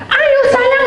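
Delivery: coaxing. Retold or imitated. Coaxing the dog in high voice.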